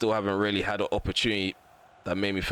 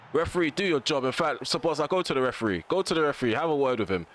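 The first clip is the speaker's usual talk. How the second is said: higher, pushed demands at the referee; agitated; 4 semitones higher than usual. Real, not acted. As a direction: urge your player to confront the ref. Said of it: "I'm getting very agitated".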